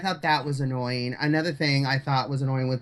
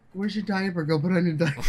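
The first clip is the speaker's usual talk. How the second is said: calm serial killer voice; 3 semitones higher, faster than usual. Retold or imitated. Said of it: "in that calm serial killer look voice".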